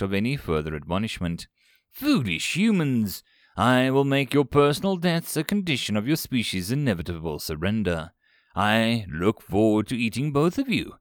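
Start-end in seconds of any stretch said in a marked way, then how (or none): 1.9-10.9 growling. Acted. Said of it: "growled Zoom".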